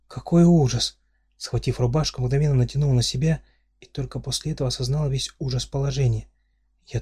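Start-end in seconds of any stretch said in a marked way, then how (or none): 0.1-1.0 horrified cry. Acted. Heroine realizes she is naked.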